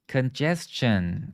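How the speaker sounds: "Congestion" slowly, with a CH-un ending; model pronunciation. Shown as a demonstration. Teacher reading a student's transliteration, "Congestion" said slowly with CH. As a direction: stretch out "Congestion" as con-JES-chun. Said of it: "you can say it like this".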